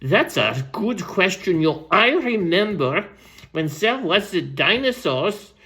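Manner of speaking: lightly voiced rambling old storyteller; Random Ransom. Old storyteller answers young kangaroo's question, lightly voiced and rambling. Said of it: "And Random said".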